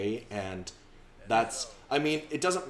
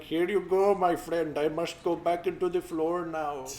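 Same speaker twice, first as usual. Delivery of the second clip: lightly voiced game character, pitched up; a hint of a higher-voiced helper character; 6 semitones higher than usual. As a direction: hand it over in a put-on higher voice. Voices a game character handing over.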